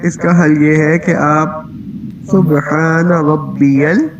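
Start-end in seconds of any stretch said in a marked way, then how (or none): 2.3-4.1 سبحان ربی ال then a short pause before عظیم; pause after al. Shown as a demonstration. Teacher showing a tiny pause to fix the lam. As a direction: stop briefly after ال, slowly. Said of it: "ایک چھوٹا سا پاز لیں".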